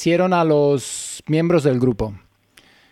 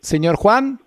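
urgent plea; 5 semitones higher than usual. Acted. Host pleading caller not to hang up.

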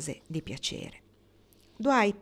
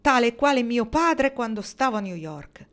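higher, louder bitter outburst; angry; 5 semitones higher, 6 dB louder than usual. A narrator's reading. Dwight angry at his father's words, higher and louder. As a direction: hurl it out, pitched up and loud. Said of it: "ripeté con rabbia".

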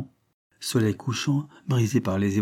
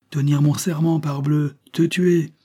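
raised, louder voice of a determined killer; menacing resolve; 5 semitones higher, 5 dB louder than usual. A narrator's reading. Lover telling his mistress he will kill her, menacing. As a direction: declare the threat forcefully, pitched up.

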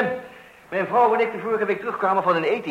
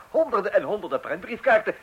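excited laughing; 3 semitones higher than usual. Acted. Father excited by his idea.

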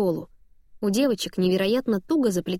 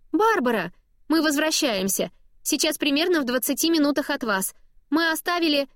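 higher, chirpy mother on a crackly call; cheerful mom voice; 7 semitones higher than usual. A narrator's reading. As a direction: rattle it off like a breezy busy mum. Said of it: "жизнерадостный голос мамы".

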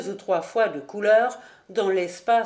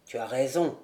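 slow; 8 semitones lower, faster than usual. A narrator's reading. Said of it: "dit lentement le charbonnier".

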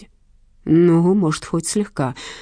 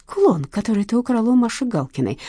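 stern accusing tone, a touch higher; menacing tone; 6 semitones higher than usual. Acted. Detective accusing Lena over the pendant, mock stern. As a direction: press her like a stage detective. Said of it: "с той же грозной интонацией".

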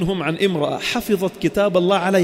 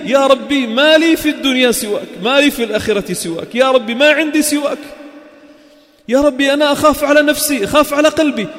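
pleading prayer; 6 semitones higher, 4 dB louder than usual. Acted. Preacher voices a broken prayer.

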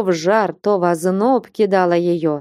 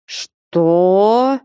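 a mild shout, louder; 4 dB louder than usual. A narrator's reading. Father shouts at his daughter who refuses the groom, mild shout. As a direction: snap it out as a short shout. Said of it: "закричал Потап Максимыч".

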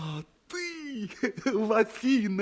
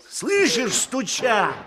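sharp, loud rebuke; angry scolding; 3 semitones higher, 7 dB louder than usual. Acted. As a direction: snap at a lazy servant. Master scolds the sleepy slave.

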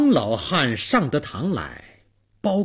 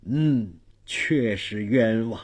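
understated, lower-toned sympathy; sympathetic; 4 semitones lower, slower than usual. Acted. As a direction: agree with a touch of pity. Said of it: "同情地对鬼魂儿说". (略带同情地低声说)

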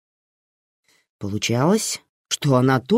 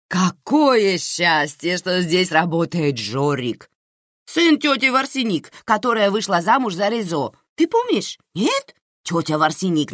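a hint of an excitable aunt telling family gossip; fussing aunt; 6 semitones higher than usual. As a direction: gush over the lucky coincidence. Aunt Naira chatters at the bedside.

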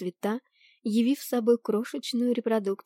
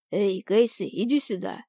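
calling out; 3 dB louder than usual. A narrator's reading. Iris calls Cassie over to him, calling out. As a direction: lively call to a friend. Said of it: "позвал меня Ирис".

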